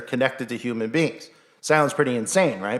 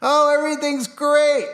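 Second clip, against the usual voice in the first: much higher, slow airy mockery of a clueless optimist; mock naive cheer; 14 semitones higher, 3 dB louder than usual. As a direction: sing it out like a blissfully naive person. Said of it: "clueless and naive".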